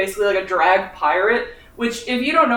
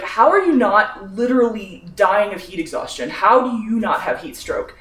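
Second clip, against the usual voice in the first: incredulous; 2 semitones higher, 3 dB louder than usual. Retold or imitated. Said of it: "'Cause I'm like".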